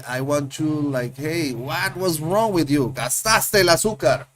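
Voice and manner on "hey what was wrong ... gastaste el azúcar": mock scolding. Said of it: "to be like".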